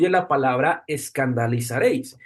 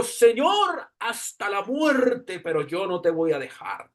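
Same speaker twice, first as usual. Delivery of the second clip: impassioned vow; 4 semitones higher, slower than usual. Retold or imitated. Peter vows love to Jesus.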